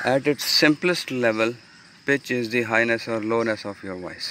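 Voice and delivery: slow, deliberate reading of the slide. Acted. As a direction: read each phrase out slowly for students. Reads English slide text. (धीमे, ठहर-ठहर कर slide पढ़ना)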